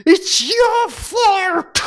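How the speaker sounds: put-on high, drawn-out wailing child; crying child's wail. Daughter wailing at her father, blaming him. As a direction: wail it like a sobbing little girl. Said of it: "소리를 치면서 울면서 울부짖으면서".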